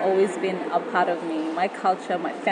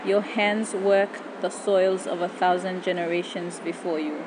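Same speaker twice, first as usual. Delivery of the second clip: poem recitation. Acted. Spoken word poem over music.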